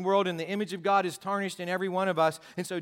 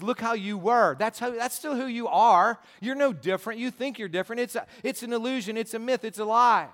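higher and louder accusing taunts; devil shouting; 3 semitones higher, 4 dB louder than usual. Acted. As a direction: raise it up like the devil yelling you down. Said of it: "he shouts".

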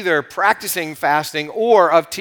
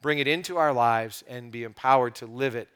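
gentle, earnest prayer voice, easing down toward the end; pastor's prayer. Acted. Pastor praying for his church before the reading, earnest prayer voice. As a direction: pray sincerely over the congregation.

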